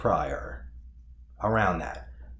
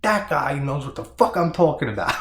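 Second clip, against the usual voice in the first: higher, louder, laughing through the line; laughing cop quote; 8 semitones higher, 7 dB louder than usual. Retold or imitated. Reviewer imitating the scared cop, laughing loudly. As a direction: crack up as you imitate him. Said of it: "He's like".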